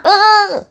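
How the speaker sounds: 아주 높게 짜증 섞어 내는 아이의 "으"; 떼쓰는 아이처럼 짧게 "으" 하고 짜증; 짜증내는 소리 흉내. Retold or imitated. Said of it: "하는 짜증". (높고 짧은 아이 짜증 소리 흉내)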